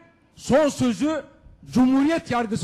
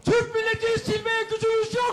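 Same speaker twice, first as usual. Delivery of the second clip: shouting at court; 9 semitones higher than usual. Real, not acted. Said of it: "bağırma, bağırma".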